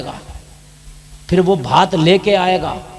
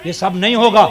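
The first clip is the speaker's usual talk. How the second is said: put-on determined young man; 5 dB louder than usual. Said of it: "अगर नौजवान अपनी पे आ जाए".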